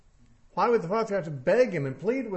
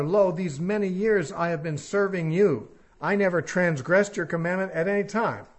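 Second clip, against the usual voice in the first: aggrieved son; 3 semitones higher, 5 dB louder than usual. Acted. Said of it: "The son said".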